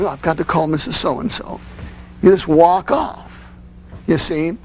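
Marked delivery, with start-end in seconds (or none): 0.0-1.6 offhand aside. Shown as a demonstration. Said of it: "you just go off and do other things".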